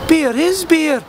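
P=A; stress on is. Acted. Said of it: "And then it struck me".

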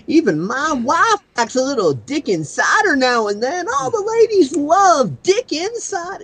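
put-on chirpy Aussie boy ad line; Aussie kid voice. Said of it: "a parody".

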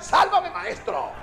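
high, slow mock yell; retold cry for help. Retelling Pedro's cry to his master, high mock yell. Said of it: "le tocó gritar".

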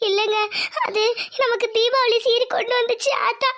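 halting, tearful explanation; crying. Acted. Wife explaining her mother's festival gift, crying. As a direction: explain through tears, pausing to hold back sobs. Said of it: "அதுக்கு ஏன் அழுகுற?".

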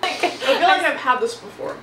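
talking with food in mouth; eating candy while speaking; chewing while talking. Real, not acted. Seen 1: Left speaker bites candy before, holds it, bites again after.

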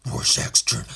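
gruff, rasping journal entry; Rorschach. Acted. Comic reader opening Rorschach's journal, raspy growl. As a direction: growl it under the breath. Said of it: "He should sound like Rorschach".

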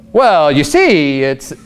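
slow, drawn-out hedging; Pharisee making excuses. Acted. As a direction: stretch it out like someone wriggling round a rule. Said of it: "the Pharisees had ways around that".

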